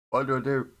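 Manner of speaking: loud, fed-up question; exasperated. Real, not acted. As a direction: throw it out to chat in frustration. Torn over model choice.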